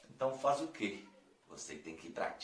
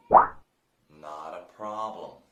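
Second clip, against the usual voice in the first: wife's reply; 3 semitones lower, 11 dB louder, much slower than usual. Acted.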